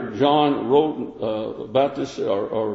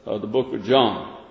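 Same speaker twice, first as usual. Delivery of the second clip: ordinary talk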